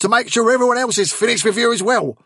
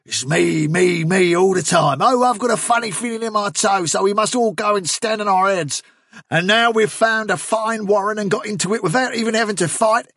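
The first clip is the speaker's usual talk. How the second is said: high-pitched, sustained angry tirade; furious; 10 semitones higher, 3 dB louder than usual. A narrator's reading. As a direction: rant at him, building to a final warning. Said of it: "turned furiously on Fiver".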